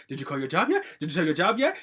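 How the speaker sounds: imitating a pestering question, rising sharply at the end; retold nagging. Daughter imitating mother nagging by phone about the job, pestering. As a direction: mimic repeated nagging with lifted endings.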